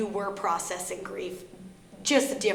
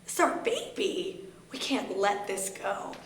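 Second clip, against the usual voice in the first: hurt disbelief; 3 semitones higher, 3 dB quieter, slower than usual. Retold or imitated. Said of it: "And I was like".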